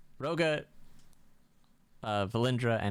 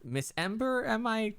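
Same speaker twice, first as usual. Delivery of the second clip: shopkeeper voice; 6 semitones higher than usual. Acted. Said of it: "he hands it back and goes".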